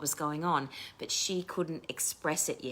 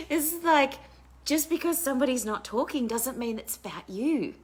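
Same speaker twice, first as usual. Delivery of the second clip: still laughing; 9 semitones higher, 6 dB louder than usual. Real, not acted. Laughing at her own story.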